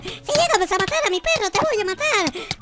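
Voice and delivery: clone copying. Acted. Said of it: "No copies lo mismo que yo".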